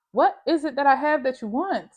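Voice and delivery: exasperated demand. Retold or imitated. Demanding question to mom.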